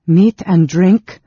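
loud, slow, high and commanding; imperious tone. A narrator's reading. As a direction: toss it off like a haughty lord. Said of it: "in an imperious tone".

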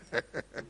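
soft breathy chuckle; brief, low-key laugh; short chuckle. Real, not acted. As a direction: chuckle quietly at your own joke. Laughs at own joke.

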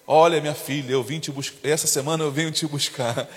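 low, soft voice of God calling; low hushed divine voice; God's voice. Pretend. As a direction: speak as God gently calling her home. God voiced speaking to believer.

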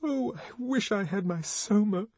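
high, plaintive wish; shuddering longing. A narrator's reading. Lenina craving her drug after the whipping, high, plaintive moan. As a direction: whimper for comfort. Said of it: "She shuddered".

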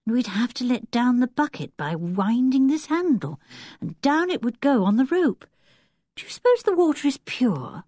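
put-on a young girl wondering aloud; Anne's voice. Girl asking brother about the well, curious.

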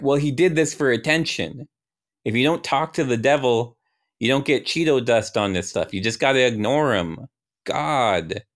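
lightly voiced peeved God; whiny scolding. God scolding in acted dialogue.

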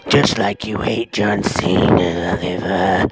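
menacing spider taunting slowly; a creepy spider gloating over revenge. Acted. Spider taunts, ends whispering.

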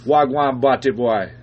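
low, slow mock Jamaican; terrible Jamaican accent. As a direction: lay on a Jamaican accent slowly. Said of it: "Mine's terrible".

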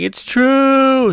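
hammed-up high villain yell; mock villain cry. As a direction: shriek it out in a put-on high voice. Ulti shouting.

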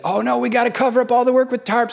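quick-thinking boss sounding the alarm, imitated; urgent retold warning. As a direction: call out in mild retold panic. Retold boss, storm coming up.

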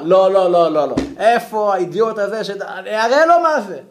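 hammed-up bluster. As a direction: play the hold-me-back tough guy. Man demanding who pushed him.

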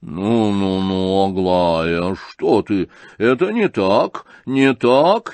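лёгкий испуг в голосе генерала; испуганно осаживает дочь. Acted. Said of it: "испуганно бормотал". (генерал испуганно останавливает Аглаю, громче к концу)

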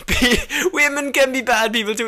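mock echo. Echoing co-host in mock voice.

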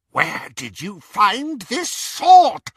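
high, slow, loud witch voice; Bellatrix voice. A narrator's reading. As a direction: demand it like a mad witch. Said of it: "she repeated".

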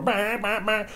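very high repeated bleats; kids' bleating noise. Retold or imitated. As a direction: squeal like kids running wild. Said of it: "their kids are fucking everywhere".

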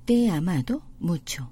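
very slow, careful; slow demo. Shown as a demonstration. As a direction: lay out each word for learners. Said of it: "다시 한번 들어보시면은요".

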